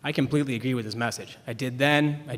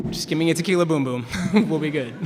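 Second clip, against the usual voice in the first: quick and a bit higher, laughter breaking in at the end; laughing it off; 4 semitones higher, 5 dB louder, faster than usual. Retold or imitated. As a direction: shrug it off with a laugh. Brushing off the dad, laughing.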